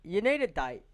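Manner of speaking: mock-offended outburst; high indignant What. Teasing defence of prank.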